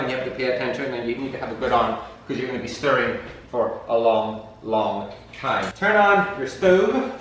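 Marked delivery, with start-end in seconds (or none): 5.7-7.1 slow, high dramatic announcement; drawn out like a TV host; slow announcer voice. Pretend. Dramatic cooking instruction.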